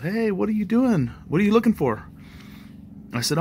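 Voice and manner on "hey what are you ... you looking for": mock yell, pitched up; a lightly voiced lady hollering across the yard; retold yell. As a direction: call out like the neighbor lady. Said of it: "and she yelled".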